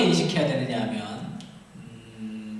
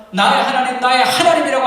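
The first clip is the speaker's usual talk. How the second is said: crying prayer; 6 semitones higher, 11 dB louder than usual. Acted. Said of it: "하나님을 향해서 기도하죠".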